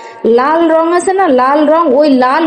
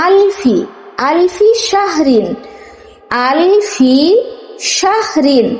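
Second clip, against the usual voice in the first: word by word; 3 semitones higher, much slower than usual. Shown as a demonstration. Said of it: "কিন্তু আমি যদি".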